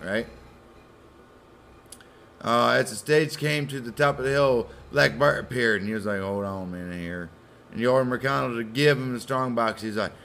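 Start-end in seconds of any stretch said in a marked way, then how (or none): 6.2-7.3 lower, softer menacing aside; a quiet threat from the bushes; low robber voice. Retold or imitated. Robber stops the stage.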